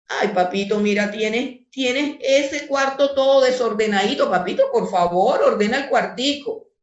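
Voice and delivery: coaxing, sugary mother's plea; sweet pleading mom. Retold or imitated. Mother sweetly begs her son to tidy the room. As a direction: coax the child gently, no authority. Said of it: "Si una mamá le dice al niño".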